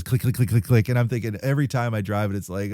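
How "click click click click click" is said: imitated rapid clicking; quick run of clicks; clicking truck noise. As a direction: mimic a truck's gear clicking. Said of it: "It goes".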